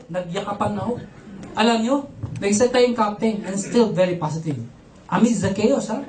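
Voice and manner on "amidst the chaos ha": ordinary talk, nothing marked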